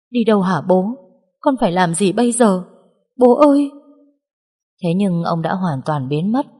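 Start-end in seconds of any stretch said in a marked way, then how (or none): 0.1-3.7 desperate calling. Acted. Daughter calls after vanishing father.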